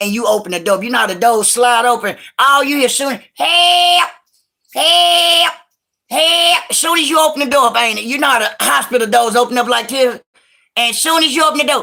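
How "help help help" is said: high, drawn-out hollering calls. Telling a story about arriving at the hospital, imitating Pigfeet hollering help. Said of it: "hear Pigfeet hollering in the hospital".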